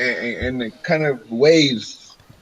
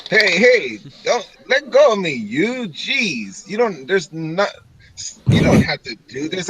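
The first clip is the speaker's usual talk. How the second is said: higher, hurried mock pleading; flustered protest; 4 semitones higher than usual. Elf picked up by the shirt, flustered protest. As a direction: object quickly as you're hauled off.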